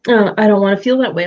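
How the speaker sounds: put-on fast childish whine, lightly done; a hint of a sulky child; whiny little kid. Coach imitating someone refusing a feeling, mock kid whine. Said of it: "that makes you sound like a little kid".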